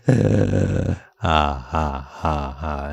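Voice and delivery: low, throat-resonant ah sounds; throat resonance drill. Shown as a demonstration. Demonstrating the throat exercise for students. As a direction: open the throat and hum the ahs. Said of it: "So they have to go like".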